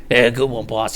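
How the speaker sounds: lightly voiced big henchman; big goon voice. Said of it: "The, the big guy".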